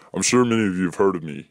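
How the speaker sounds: fast, sly, even-toned delivery; sly monotone. Acted. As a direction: say it smugly, without lifting the tone. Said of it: "he says in a sly, monotone voice".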